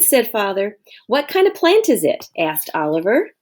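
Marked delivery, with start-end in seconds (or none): 1.1-2.3 put-on high, curious little boy; eager child. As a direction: ask like an impatient kid. Oliver asks eagerly.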